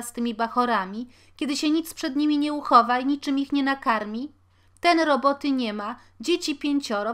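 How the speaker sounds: loud, high, fast lament; crying complaint. A narrator's reading. Poor washerwoman to her landlord: loud, high tearful lament. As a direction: wail your misery at him, rushing. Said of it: "a potem płacząc dodała".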